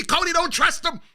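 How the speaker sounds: high urgent warning, pitched well up; mock yell at the TV. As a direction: plead with Cody through the screen. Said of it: "I was yelling at the T V".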